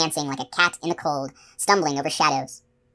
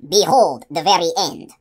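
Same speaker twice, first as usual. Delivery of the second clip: loud, slow showman's shriek; drawn-out booming announcement; 5 dB louder than usual. A narrator's reading. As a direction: proclaim it like a carnival barker. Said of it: "Rook shrieked".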